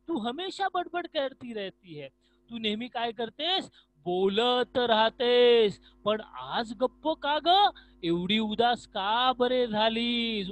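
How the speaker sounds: loud, slow, concerned questioning; caring ear character. Acted. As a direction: ask the gloomy tongue what is wrong. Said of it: "कर्णिका काय सांगते जीवाताईला".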